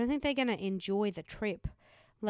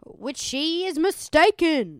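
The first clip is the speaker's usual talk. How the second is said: high, loud and slow sarcasm; drawn-out mocking jab; sarcastic; 7 semitones higher, 11 dB louder, slower than usual. Real, not acted. Mocking aside.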